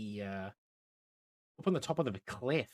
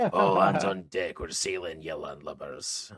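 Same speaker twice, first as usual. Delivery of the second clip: shouting sailor; 6 semitones lower, 7 dB louder than usual. Acted. Crew boss rallies the landlubbers to sail, hammed-up sailor shout. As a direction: bellow the order, then sink into a salty growl. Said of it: "I don't know what accent he's got".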